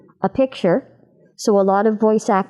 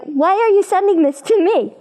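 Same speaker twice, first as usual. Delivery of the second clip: much higher, squeaky disbelieving question; small high voice; 10 semitones higher than usual. Retold or imitated. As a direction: play the tiny-voiced actor baffled by the script. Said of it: "I'm like".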